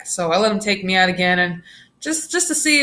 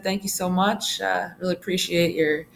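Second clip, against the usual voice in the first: very polite. Retold or imitated. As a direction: act out politely thanking a fan. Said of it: "very polite to him".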